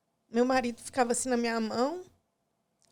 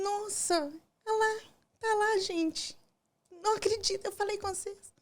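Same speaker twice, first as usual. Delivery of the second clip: retold joyful excitement; 8 semitones higher than usual. Retelling seeing baby on ultrasound.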